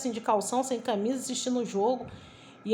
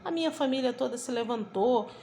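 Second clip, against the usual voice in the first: ordinary delivery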